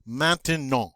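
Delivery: MAINTENANT with UN in front, ON at the end; French nasal vowels. Shown as a demonstration. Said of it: "that beautiful un sound at the front".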